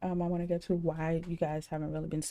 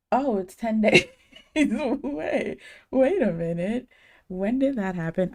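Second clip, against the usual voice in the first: sudden high, loud realization; wait, what? gasp of shock; surprised; 4 semitones higher, 7 dB louder than usual. Retold or imitated. Retold realizing stream is soon.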